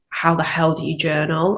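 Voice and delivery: ordinary talk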